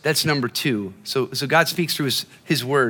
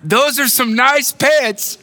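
put-on old lady's compliment; 9 semitones higher, 4 dB louder, much slower than usual. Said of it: "She said".

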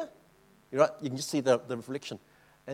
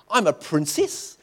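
proud repeated boast; 5 dB louder, slower than usual. Retold or imitated. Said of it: "all evening she goes".

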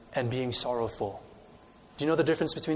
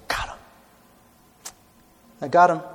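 gloating Satan; 3 semitones higher than usual. Acted. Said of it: "Satan thought to himself".

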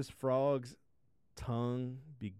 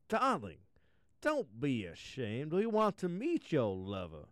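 queen voice; 4 semitones higher than usual. Acted. Queen comforts princess.

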